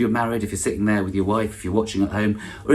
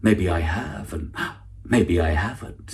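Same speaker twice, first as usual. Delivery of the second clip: mock mysterious; slower than usual.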